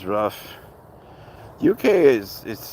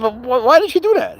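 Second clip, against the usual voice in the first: retold disbelief; 6 dB louder than usual. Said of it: "I said".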